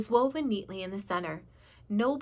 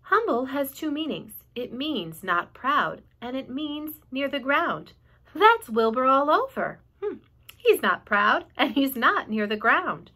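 slow, thoughtful explaining; a touch of slow wonder; slow musing; 3 semitones higher, 6 dB louder, slower than usual. Acted. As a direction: savour each meaning slowly.

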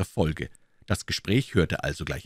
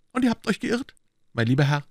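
high, cool formal reply; cold; 7 semitones higher, faster than usual. A narrator's reading. Aramis answering D'Artagnan's excuse, coldly. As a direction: dismiss him coolly. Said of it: "antwortete Aramis kalt".

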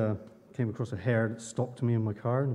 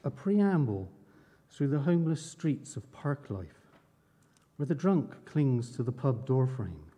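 measured, unhurried recital with pauses; poem reading. Acted. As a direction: read it like a poem at an open mic. Reads his poem aloud.

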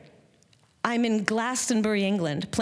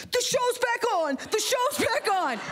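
high-pitched screamed announcement, imitating dad; frantic, high retold scream. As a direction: scream the news down the phone. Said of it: "and he's screaming".

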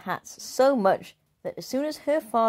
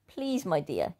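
begging; 4 dB quieter, slower than usual. Acted. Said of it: "he begged".

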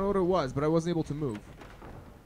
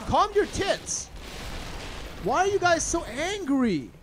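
mock scolding; 9 semitones higher, slower than usual. Real, not acted. Yelling at angry enemies.

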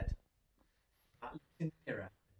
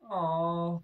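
sigh; 8 semitones higher, 11 dB louder than usual. A narrator's reading. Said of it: "Splat sighed".

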